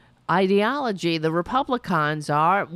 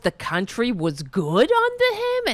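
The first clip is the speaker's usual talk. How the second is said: lightly exaggerated imitation of Tina's accent, a bit louder; mock Tina accent; 2 semitones higher, 3 dB louder than usual. Host mocks caller Tina's accent, mild mock accent imitation. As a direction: parrot her accent back with a sneer. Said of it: "What is this accent?".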